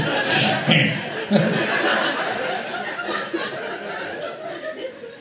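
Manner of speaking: short derisive "heh"; imitated mocking laugh. Comic copying the one man laughing at him, derisive laugh. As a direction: mimic a single scornful laugh. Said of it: "just this one guy just laughing at me".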